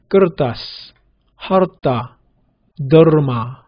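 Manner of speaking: 끄르따스, 하르따, 더르마 each with the 르 sounded out; every second-syllable r said distinctly; clear middle r. Shown as a demonstration. Teacher drilling clear r sounds, each r distinct. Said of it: "R 발음을 정확하게 해주셔야 됩니다".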